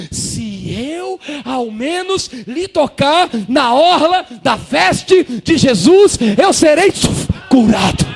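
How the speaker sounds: slow, loud, high cry; woman's desperate cry. Acted. Preacher acting the sick woman reaching for Jesus, slow loud cry. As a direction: cry it out across the church. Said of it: "ela dizendo assim".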